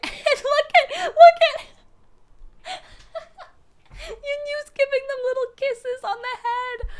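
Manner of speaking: high, shrieking laughter through words; laughing hard. Real, not acted. Streamer losing it over fan art, laughing high. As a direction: crack up while describing the art.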